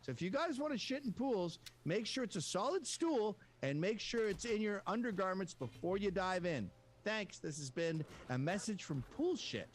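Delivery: chirpy mock instructional podcaster; podcast host. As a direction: give listeners earnest tips, podcast-style. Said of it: "to have a podcast called Pool Shit".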